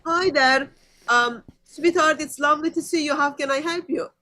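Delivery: polite, sugary greeting; lightly voiced syrupy shop clerk; sweet customer service. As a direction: welcome them sweetly like a kind receptionist. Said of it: "you would expect people to say".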